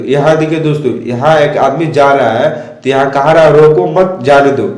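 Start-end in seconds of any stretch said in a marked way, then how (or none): 3.5-4.7 slow reading grouping "रोको मत" together, then "जाने दो"; pause after मत. Shown as a demonstration. Teacher showing that the person may go, pause after मत. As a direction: break after मत, before जाने दो. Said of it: "उसे रोकना नहीं है".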